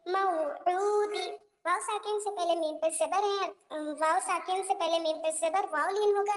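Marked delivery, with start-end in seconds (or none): 0.1-1.3 मऊऊदी stretched out, very slow; joined reading. Shown as a demonstration. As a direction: draw out मऊऊदी gently while joining it. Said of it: "नरमी के साथ चल पढ़ना है".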